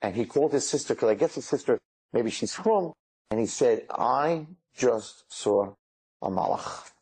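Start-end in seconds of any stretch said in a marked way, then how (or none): 3.9-6.9 slow, stunned report. Retold or imitated. Soldier telling his sister what he just saw, slow and stunned. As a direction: spell it out slowly, word by word.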